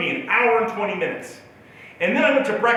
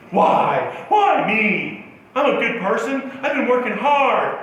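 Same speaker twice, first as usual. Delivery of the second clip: mock-miserable wail, a bit raised; self-pitying lament; 3 semitones higher, slower than usual. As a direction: wallow in it, pleading why. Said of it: "reveling in my misery".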